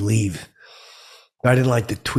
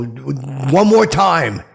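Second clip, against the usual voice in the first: slow, loud threat; warning; 3 semitones higher, 4 dB louder, much slower than usual. Retold or imitated. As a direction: draw it out as a final warning. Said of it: "And I go".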